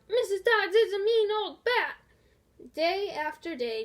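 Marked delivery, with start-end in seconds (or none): 0.1-2.0 loud, high taunting yell. A narrator's reading. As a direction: join in the jeering. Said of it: "Nathan yelled".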